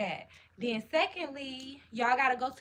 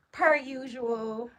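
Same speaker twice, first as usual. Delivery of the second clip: slow and louder, stretch "Per usual"; drawn-out emphasis; 5 dB louder, much slower than usual. Shown as a demonstration. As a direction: lean on "Per usual", pulled long and loud. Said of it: "repeats phrase with drawn-out emphasis".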